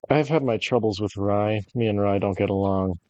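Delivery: droning monotone bread review; deliberately dull monotone voice. Pretend. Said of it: "In a monotone voice".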